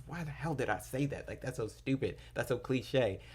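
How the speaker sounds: imitating someone beating themselves up; mock self-reproach. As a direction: cringe in disbelief at your own words. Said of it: "beat yourself up after".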